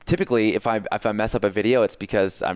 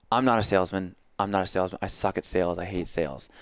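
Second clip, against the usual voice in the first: defeated; 3 semitones lower, 4 dB quieter than usual. Shown as a demonstration. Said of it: "if you continually say".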